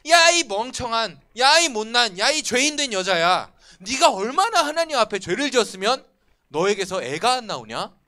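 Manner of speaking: loud, jeering insults at a barren rival; mocking taunt. Peninnah taunting childless Hannah, loud mocking jeer. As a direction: sneer at her, loud and cruel. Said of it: "막 비웃은 거예요".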